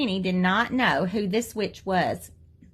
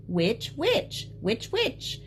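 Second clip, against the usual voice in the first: savoring the words; 4 semitones higher, much slower than usual. A narrator's reading. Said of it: "liking the sound of the words".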